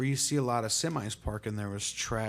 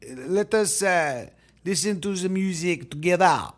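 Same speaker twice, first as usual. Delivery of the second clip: put-on terrible French accent; 2 semitones higher, 5 dB louder than usual. Host welcoming viewers to Quarantunes in a terrible French accent. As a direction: play a bad French show host inviting everyone in. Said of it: "That was my terrible French accent".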